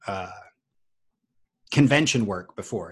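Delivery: ordinary delivery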